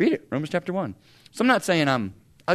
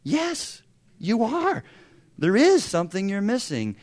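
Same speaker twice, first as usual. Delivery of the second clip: higher, pointed mock agreement; knowing retort; 4 semitones higher than usual. Believers silently answer the scientist, knowingly. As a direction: say it like you knew all along.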